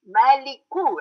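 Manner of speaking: "Maliku" with a clear, strong final "koo"; correct ending KU. Shown as a demonstration. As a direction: end "Maliku" on a stressed long oo. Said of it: "very difficult for pronunciation".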